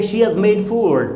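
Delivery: slow, careful teaching read; slow classroom example; slow demo. Shown as a demonstration. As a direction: spell the sentence out slowly. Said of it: "तो यहाँ she has करना है".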